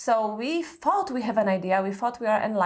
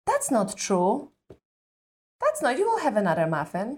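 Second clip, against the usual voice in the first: fixing reassurance; 2 semitones higher than usual. Shown as a demonstration. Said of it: "trying to resolve for their emotional need".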